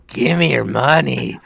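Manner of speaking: slow, mock-greedy demand; Proton John impression. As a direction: drawl it like a pushy beggar. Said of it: "To quote Proton John".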